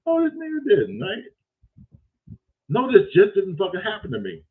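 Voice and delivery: incredulous reaction to a hang-up; caught off guard. Retold or imitated. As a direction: react stunned, as if replaying the shock. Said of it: "I'm caught off guard".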